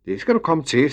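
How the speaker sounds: kindly. A narrator's reading. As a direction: grant the wish in a kindly voice. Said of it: "sagde Emil venligt".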